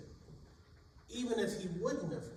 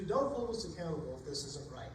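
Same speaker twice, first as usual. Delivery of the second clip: lower, settled repeat of the plea; a lower, more resigned echo of the plea; 3 semitones lower than usual. Acted. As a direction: bring the prayer down, almost to yourself. Sailors repeat their prayer.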